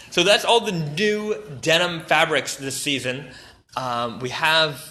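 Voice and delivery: winded, breathing between words. Real, not acted. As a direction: talk while short of breath. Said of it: "I'm running out of breath".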